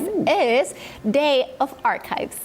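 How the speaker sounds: slow, hyped-up reveal; hyped announcement. Acted. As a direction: sell it like big news. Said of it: "that landed with a thud".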